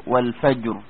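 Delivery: "والفجر" ending on a thick, held ra; heavy ra. Shown as a demonstration. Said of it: "زي كلمة إيه؟".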